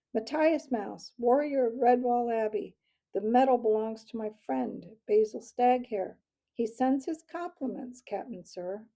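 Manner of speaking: loud, urgent report between breaths; gasped, panting. A narrator's reading. Dodging mouse answers the owl captain, gasping. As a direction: report to an officer while short of breath. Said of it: "panting for breath, the young mouse gasped".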